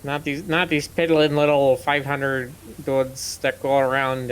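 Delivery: put-on playfully laid-on Canadian accent; mock-earnest Canadian accent. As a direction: lean a little into a Canadian accent. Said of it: "using his accent to sound Canadian".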